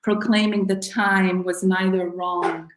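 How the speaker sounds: measured poem recital with falling line endings; poetry reading. Acted. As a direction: read it as a poem, phrase by deliberate phrase. Reads own poem aloud.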